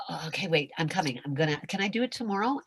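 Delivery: hushed, hesitant stalling; nervous whisper. Pretend. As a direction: whisper it, scared to jump. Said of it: "you stop yourself".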